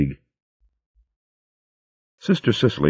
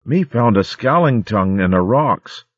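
put-on excited child; 6 semitones higher than usual. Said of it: "he cried".

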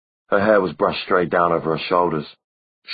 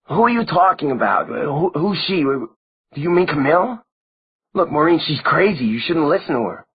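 alarmed; 10 semitones higher, 4 dB louder than usual. A narrator's reading. Simon alarmed, urging Maureen.

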